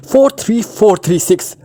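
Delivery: high, sudden blurted cry; panicked high outburst; sudden scream. A narrator's reading. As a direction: blurt it out in terror. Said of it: "यकलक चीख".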